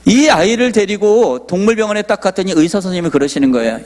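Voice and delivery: usual speaking voice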